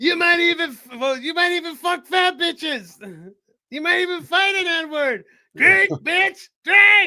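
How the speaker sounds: very high, shrill, hard yell. Quoting a comedy bit about a Sam Jackson beer: imitating Samuel L. Jackson yelling. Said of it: "Chappelle bit is Sam Jackson beer".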